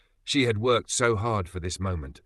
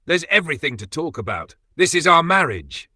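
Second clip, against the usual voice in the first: building to a high, loud cry; desperate plea; 8 semitones higher, 7 dB louder than usual. Acted. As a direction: push back harder and harder until it bursts. Wife fights for her marriage.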